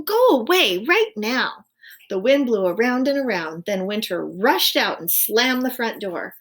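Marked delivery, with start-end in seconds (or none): 0.0-1.7 loud, slow, high command; loud slow shout. A narrator's reading. Owl ordering Winter out, loud and slow. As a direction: drive the guest out, word by word. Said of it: "shouted Owl".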